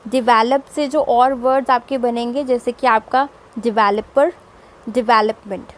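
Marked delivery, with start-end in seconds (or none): 3.6-5.7 डेवलपर and डेवलपमेंट as dih-VEL-uh-per, dih-VEL-up-ment; light "di", strong second syllable in डेवलपर, डेवलपमेंट; stress on second syllable. Shown as a demonstration. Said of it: "In the same way".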